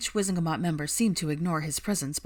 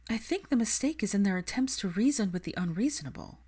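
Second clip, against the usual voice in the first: higher, earnest and idealistic; higher voice, passionate young woman; Hermione's voice; 4 semitones higher than usual. Acted. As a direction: plead the cause with conviction. Hermione explains to Kingsley.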